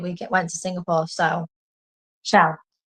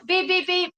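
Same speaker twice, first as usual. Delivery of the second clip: imitated beeps; 10 semitones higher than usual. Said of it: "it's ingrained in me now".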